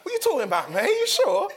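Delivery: Cockney ticket man. Retold or imitated. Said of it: "And he's like".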